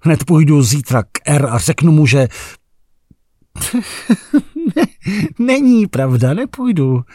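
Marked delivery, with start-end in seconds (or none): 3.6-7.0 high, far, laughing self-correction; bitter laugh. Acted. The narrator catching himself, laughing bitterly. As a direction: laugh it off, half hysterical.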